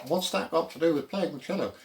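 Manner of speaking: mock the sceptic asking why; sceptical student. Teacher voicing a doubting student's question, lightly mocking. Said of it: "you might well ask".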